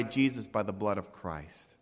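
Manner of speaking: whispered, hushed and close. Real, not acted. Preacher to congregation, a hushed whisper. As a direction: lean in and whisper it.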